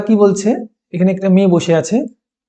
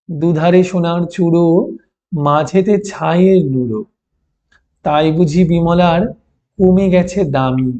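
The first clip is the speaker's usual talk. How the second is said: poem recitation; 2 semitones lower than usual. Acted. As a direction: read the verse aloud to the class, unhurried. Recitation continues. (ধীরে কবিতা আবৃত্তি)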